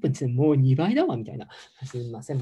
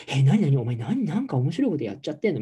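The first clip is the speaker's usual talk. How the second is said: nosy yoga god; 5 dB louder than usual. Retold or imitated. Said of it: "みたいなヨガ神さんがいるわけよ".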